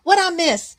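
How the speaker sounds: high, loud quick read of a chat line; misread chat question. Real, not acted. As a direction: blurt out the misread "What I miss?" before correcting. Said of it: "What did I miss?".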